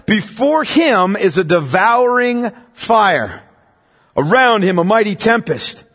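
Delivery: a measured, reverent psalm reading; scripture reading. Acted. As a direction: let the verses land with weight. Reads Psalm fifty aloud.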